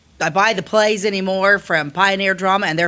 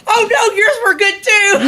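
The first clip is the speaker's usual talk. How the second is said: high, laughing backpedal; laughing apology; 13 semitones higher, 5 dB louder, slower than usual. Retold or imitated. Teasing the fan lady, laughing as he backpedals. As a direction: laugh through a hurried take-back.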